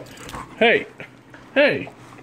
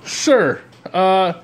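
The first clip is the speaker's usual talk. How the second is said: laughing scold; 3 semitones higher, slower than usual. Real, not acted.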